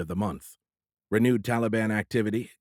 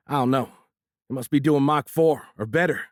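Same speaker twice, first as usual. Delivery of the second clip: faltering; 5 semitones higher, 5 dB louder than usual. A narrator's reading. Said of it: "Victor faltered".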